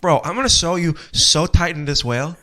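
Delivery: light New York bro voice; a hint of a New York tough guy; New York accent. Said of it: "I went a little New York".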